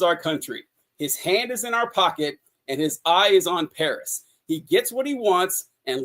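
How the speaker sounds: reads Douglass's words in a measured, quoting voice; reading a quote aloud. Shown as a demonstration. Podcaster reads a Frederick Douglass passage to the listener, lightly formal reading. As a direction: lets the old text carry itself, lightly performed. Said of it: "And he says".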